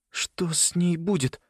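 lightly voiced boy, worried. A narrator's reading. Simon voice.

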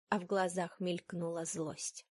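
ordinary delivery, nothing marked

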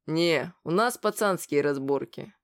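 slow and pompous; self-important. Acted. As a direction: speak with mock importance. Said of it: "важно произнёс Бугай".

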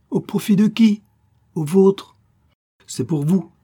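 high, loud indignant challenge; heated accusation. Acted. Countess quarrels with the prince over the marriage, heated accusation. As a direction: throw it out as an accusation.

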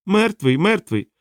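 high-pitched parroting creature; little creature echoing. A narrator's reading. Small creature repeating Rocannon's word, high-pitched echo. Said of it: "повторило маленьке створіння".

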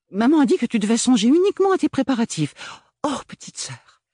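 high, fast, hammed-up tearful gush; theatrical sob. Agathe embracing her sister, mock sobbing. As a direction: throw yourself on her sobbing for show. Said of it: "sanglota-t-elle".

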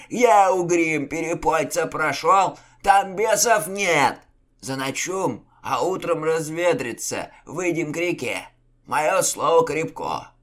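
high, loud, slow boastful commands; a leader masking his fear; blustering chieftain. A narrator's reading. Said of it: "Тон атамана скрывал затаившийся страх".

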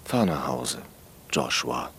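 loud, firm warning to drive slowly; stern order. Acted. Cop warning the teen driver, loud and stern. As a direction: bark the last order like a cop.

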